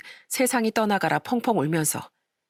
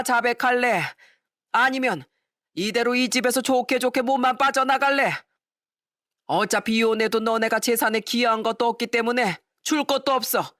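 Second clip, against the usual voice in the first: higher, scornful scolding father; angry father; 5 semitones higher than usual. Acted. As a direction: scold the lying daughter with contempt. Father gives ultimatum.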